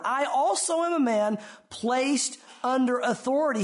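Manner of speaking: "also" stressed in a slow, deliberate reading. Shown as a demonstration. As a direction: spell out the verse slowly, marking "also". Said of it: "note that word".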